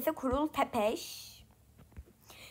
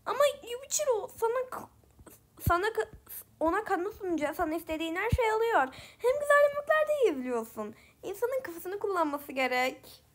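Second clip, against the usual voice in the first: put-on high, fast sad girl voice; a bit sad and a bit happy; 6 semitones higher than usual. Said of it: "daha bir üzgün ses kullanıyorum".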